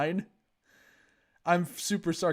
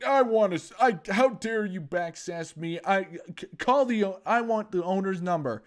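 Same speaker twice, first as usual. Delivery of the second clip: mock outraged Karen; 4 semitones higher than usual.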